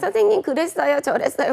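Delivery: put-on babyish, high, creaky childlike voice. Teacher imitating how students talk at interviews: babyish childlike voice. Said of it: "이렇게 얘기 아기같이 얘기하는 거는".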